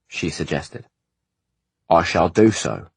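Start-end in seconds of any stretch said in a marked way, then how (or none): 1.9-2.9 slow, heavy and weighty; heavily. Acted. Offended servant answering Ishrak, slow and heavy. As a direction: drag each word out with wounded weight. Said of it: "Freeze said heavily".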